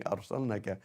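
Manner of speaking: "أرسلناك" with a short, quick "na"; dropped long vowel. Shown as a demonstration. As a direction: skip the alif length in "أرسلناك". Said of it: "Oh, the same thing".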